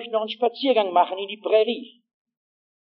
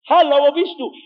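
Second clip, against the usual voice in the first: loud, raised searching call; 6 semitones higher, 7 dB louder than usual. Acted. Preacher voices Jesus seeking the lost, calling out.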